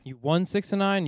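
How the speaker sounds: disbelieving rise on nine; incredulous. Real, not acted. Host teasing buddy who reversed the score, incredulous rise. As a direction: pitch jumps up, mock disbelief. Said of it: "You mean nine to six".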